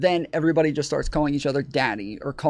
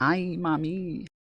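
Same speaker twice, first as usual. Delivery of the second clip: put-on Spanish accent sliding into Italian; 2 semitones higher, 5 dB quieter than usual. A streamer says a phrase the way couples say it, Spanish accent drifting Italian. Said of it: "Tom's Spanish accent goes Italian so fast".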